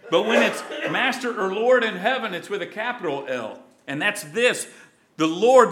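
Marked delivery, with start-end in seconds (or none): 5.2-5.7 1 emphatic proclamation. Acted. Preacher proclaims God's title.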